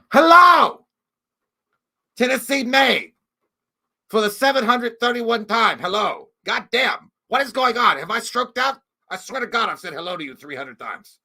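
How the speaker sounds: high, loud exasperated hello; exasperated shout. Real, not acted. Streamer greets a repeat viewer yet again, exasperated shout. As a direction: blast an exasperated greeting at him.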